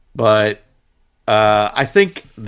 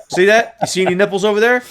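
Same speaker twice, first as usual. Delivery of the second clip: higher, fast taunt; imitating Bill Murray; 9 semitones higher, faster than usual. Producer taunts the censor, fast and cocky. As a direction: rattle it off quickly, cocky. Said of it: "He's like".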